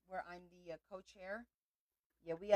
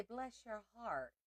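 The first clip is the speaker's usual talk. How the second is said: slow, playful Southern drawl on Bless your heart; a mock Southern belle saying Bless your heart; light Southern accent, drawn out; 3 semitones higher, much slower than usual. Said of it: "come back with a Southern accent".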